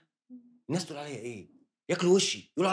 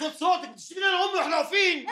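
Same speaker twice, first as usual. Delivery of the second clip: raised, higher protest; angry shout; 4 semitones higher than usual. Acted. Young man yelling at the landlady insulting his mother, angry shout. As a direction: push back hard at her.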